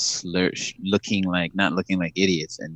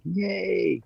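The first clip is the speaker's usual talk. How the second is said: mock yay; 11 semitones higher, 4 dB quieter than usual. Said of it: "I was like".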